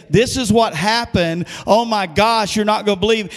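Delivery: hammed-up eager storyteller; mock excited retelling. Preacher mimics someone reliving old troubles, excitedly. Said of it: "we can glorify the past and say".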